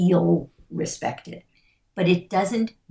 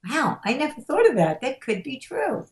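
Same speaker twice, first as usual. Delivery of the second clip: higher, wondering mock surprise; acted realization; 6 semitones higher than usual. Imagined listener sees another meaning, acted higher-pitched realization. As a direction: act out a sudden new insight.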